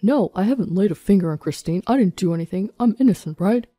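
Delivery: desperate protest in a put-on man's voice. Accused husband denies hurting his wife to police, desperate. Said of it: "Alden sounded desperate".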